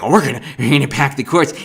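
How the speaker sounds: fast, silly mocking voice of the opponents; a quick dumb parody of their boast; mock dim voice. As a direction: rattle it off like a clueless fool. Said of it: "they think they're like".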